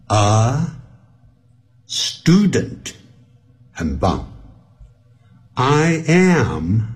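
I am, a, student, each set apart; word-by-word teaching model; slow reading. Shown as a demonstration. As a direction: read slowly for beginners, pausing between words. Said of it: "我是慢慢的念哦".

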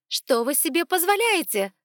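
high, loud voice cracking to a squeal; shrieking. Acted. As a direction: rage until it breaks into a squeal. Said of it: "сорвался на визг".

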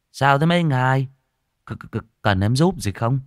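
nervous stammered offer of help; wary. Acted. Farm worker facing four strange men, wary and stammering. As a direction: stumble over the question, on guard. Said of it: "Nó đề phòng".

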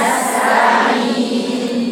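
نستعين said very slowly with the nose pinched shut; teacher testing ghunna with the nose closed; nose blocked. Shown as a demonstration. Teacher says نستعين with a pinched nose. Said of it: "اقفلي كده مناخيرك قولي نستعين".

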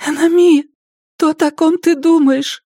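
nervous whisper. Acted. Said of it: "Наконец она прошептала".

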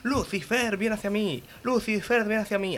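desperate shout. Acted. Man alone at home shouts desperately for Lucifer to appear. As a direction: beg Lucifer to come, voice rising. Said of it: "comienza a gritar desesperado".

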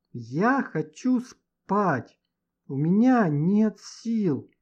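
very slow, slurred and drowsy; drugged, barely able to speak; morphine haze. Acted. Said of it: "заплетающимся языком проговорил Женя". (заплетающимся языком, в тумане)

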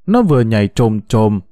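ordinary delivery, nothing marked

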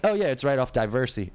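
"diversey" said with a Baltimore vowel, DYE-ver-see; regional pronunciation. Shown as a demonstration. Showing how she said the street name, "diversey" with a home vowel. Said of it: "like I'm talking right now".

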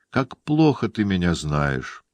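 ordinary delivery

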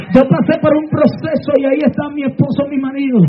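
testimony preached in driving phrases; fervent preaching. Real, not acted. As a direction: preach the testimony with urgent fervor. Preaches testimony with punctuated breaths.

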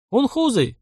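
high, spat-out name; a brief wince of contempt; disgusted grimace. A narrator's reading. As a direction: sneer at the word. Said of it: "мимолётно скривился охотник".

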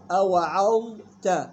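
slow أوعظت, thin ayn and ta, held dha; light ayn and ta. Shown as a demonstration. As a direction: draw out أوعظت with an unemphatic final "ta". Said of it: "يلاحظ ترقيق العين والتاء". (أوعظت بترقيق العين والتاء)

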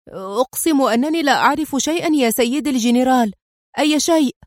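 high, pleading voice breaking down; total collapse. Acted. Driver pleading with the general, panicked collapse. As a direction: beg as if falling apart. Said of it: "في انهيار كامل".

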